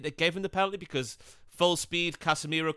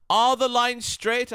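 mocking question; 10 semitones higher, 7 dB louder, much slower than usual. Mocking Twitter conspiracy claim.

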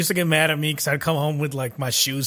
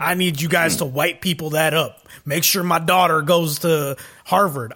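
put-on accidental redneck accent; Will Smith; 4 dB louder than usual. Host quoting a movie recruit's line, redneck accent. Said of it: "giving Will Smith a redneck accent".

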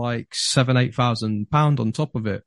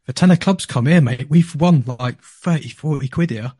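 excited call; 3 semitones higher, 3 dB louder than usual. Retold or imitated. Telling his mate at the laptop, excited call. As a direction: call for the card like it's already won. Calling the winning card excitedly.

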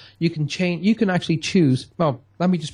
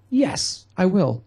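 bright, eager yes pitched higher; 5 semitones higher, much slower than usual. Retold or imitated. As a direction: jump at it happily. Delighted friend accepting good wishes.

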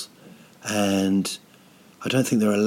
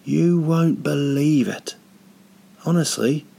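mock fury; 6 semitones higher than usual. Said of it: "the anger that is inside of me".

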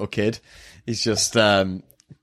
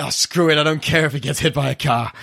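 exasperated mock dismissal; 5 semitones higher than usual. Acting out giving up on kid.

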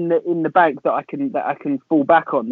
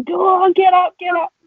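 higher mock chant of people urging him up; mock crowd egging on; 3 dB louder, slower than usual. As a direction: imitate friends goading someone to sing.

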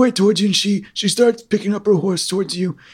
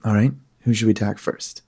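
low villain voice; 9 semitones lower than usual. Acted. DM's crossbow villain taunting the party, low voice.

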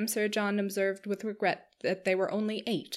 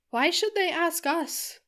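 Marianne's complaint; 10 semitones higher, 5 dB louder, slower than usual. Acted. Marianne complains about invitation.

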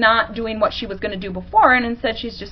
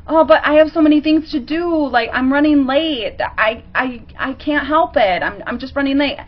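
higher, put-on whine of excuses; whiny victim; 4 semitones higher than usual. Partner whining about his busy day to his wife, a lightly voiced victim. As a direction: play the helpless victim who is running late. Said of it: "goes to be a victim too".

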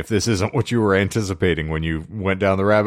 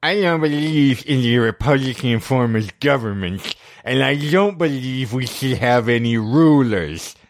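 a slightly higher male voice; 4 semitones higher than usual. Acted. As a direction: read it a bit higher, as him. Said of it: "that's not the high-pitched guy voice?".

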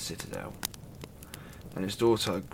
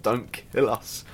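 higher, louder desperate begging for their lives; pleading; 4 semitones higher, 3 dB louder than usual. Acted. Dwarfs tied on the reef begging the son as the tide comes in, panicked pleading. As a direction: beg frantically, voice pushed up and loud. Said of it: "they pleaded and begged".

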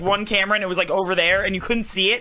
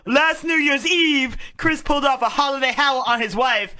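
gym bro; 2 semitones higher than usual. Pretend. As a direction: read it like a dude bro. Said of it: "read it like a bro".

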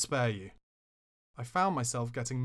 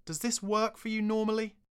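snapping; 10 semitones higher than usual. Retold or imitated. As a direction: cut him down with a sharp question. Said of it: "I snapped".

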